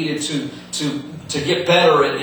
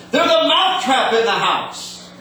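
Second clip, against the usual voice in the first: high, lisping mouse cry; squeaky lisping mouse alarm; hollering mouse; 11 semitones higher, 3 dB louder than usual. Acted. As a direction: yell it as a panicked little mouse with a lisp. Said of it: "he hollered and he said".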